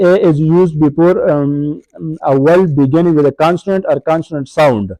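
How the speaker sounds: reads the rule slowly, word by word; slow textbook reading. Shown as a demonstration. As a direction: dictate the rule from the book.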